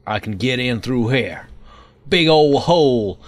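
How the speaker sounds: lightly put-on hillbilly twang; Hillbilly McGee. Gamer admiring redneck engineering, mock hillbilly voice. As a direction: play the hillbilly admiring homemade handiwork. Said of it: "I'm no longer Hillbilly McGee".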